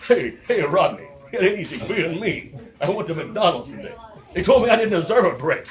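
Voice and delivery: a loud, laughing stand-up Rodney; Rodney Dangerfield impression. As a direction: bark out the no-respect gripes. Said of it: "Rodney Dangerfield".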